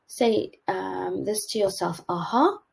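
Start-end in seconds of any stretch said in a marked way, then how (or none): 2.1-2.6 "Aha" pitched up high and rising. Shown as a demonstration. High "Aha" to a partner, finding your pitch. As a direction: say "Aha" at the top of your voice range. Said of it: "which is a high and a low".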